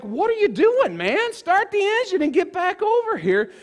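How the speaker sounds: high, loud call to a drifting friend; yelling across the river. Retold or imitated. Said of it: "And I'm just like".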